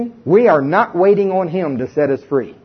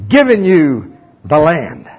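voice of God; 3 dB louder, much slower than usual. Acted. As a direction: boom it down slowly like a movie God. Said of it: "And he says".

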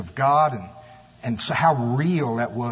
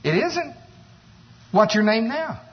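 surprised neighbor; 7 semitones higher than usual. Retold or imitated. Neighbor surprised by new name.

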